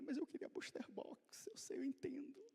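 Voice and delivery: soft whisper through tears; whispered child. Retold or imitated. Son, still tearful, admitting to father: soft whisper. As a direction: whisper it like a boy calming down. Crying son speaks softly.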